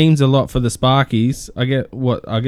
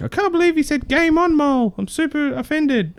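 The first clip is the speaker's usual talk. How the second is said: high, whiny mock outrage; mocking offended people. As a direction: play the offended Facebook crowd. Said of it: "so many people are like".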